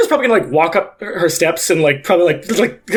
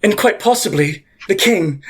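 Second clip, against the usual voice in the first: gloating pontiff; 3 semitones higher than usual. Acted.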